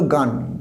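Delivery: "গান" with a long open aa vowel; mispronounced gone. Shown as a demonstration. Teacher showing students the common mistake, mispronounced. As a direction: say "গান" like the Bengali word for song. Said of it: "গান উচ্চারণ আর করবো না".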